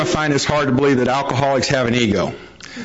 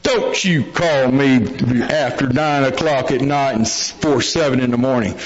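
put-on copying the old-timer's warning. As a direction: lightly mimic a veteran's stern rule as your own. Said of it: "I'm looking around, I go".

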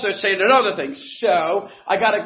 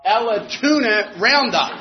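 quoting Don; slower than usual. Retold or imitated. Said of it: "he said".

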